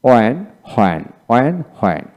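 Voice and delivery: ওয়েন without h, হোয়েন with h; both correct versions. Shown as a demonstration. Teacher showing two correct pronunciations. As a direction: say it both ways. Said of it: "দুটি উচ্চারণ সঠিক".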